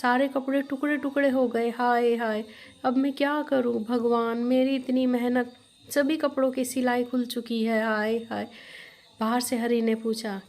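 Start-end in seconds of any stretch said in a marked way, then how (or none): 0.0-8.5 put-on slightly raised, lamenting old woman; mildly acted shock turning to wailing; a touch of shocked lament; astonished dismay. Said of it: "आश्चर्यचकित हो गई और बोली".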